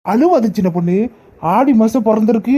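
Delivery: husband now happy to see his wife go, calmly reassuring. Acted. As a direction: settle her tears with easy calm.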